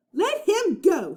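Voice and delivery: high, slow, firm demand; fierce demand. A narrator's reading. Annie confronting pirate.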